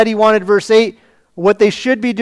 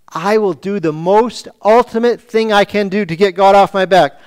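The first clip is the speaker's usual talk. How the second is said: sarcastic. Retold or imitated. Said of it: "this is sarcastic and rhetorical".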